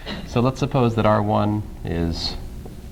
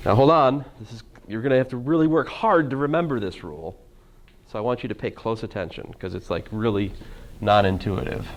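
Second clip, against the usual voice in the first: dry mock-serious warning, then drop to a hush; sarcastic. Real, not acted. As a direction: play up a fake dire warning, deadpan. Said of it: "I was being slightly sarcastic".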